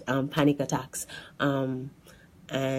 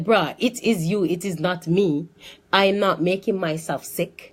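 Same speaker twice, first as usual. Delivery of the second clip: retold stubborn denial; doubting pushback; 3 semitones higher than usual. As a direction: argue back in mild protest. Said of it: "I doubted what he was saying".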